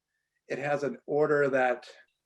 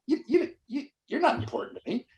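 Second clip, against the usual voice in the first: haughty French chef; 11 semitones higher than usual. Retold or imitated. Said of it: "they're saying".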